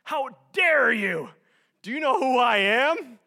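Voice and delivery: bow up like royalty insulted; hammed-up how-dare-you fury, slow at first; indignant outrage. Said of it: "you just bow up".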